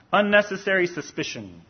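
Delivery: "Unnecessary" given clear emphasis; emphatic "Unnecessary", then falling away; stress on Unnecessary. Real, not acted. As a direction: lean on the word "Unnecessary". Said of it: "I want to emphasize the word unnecessary".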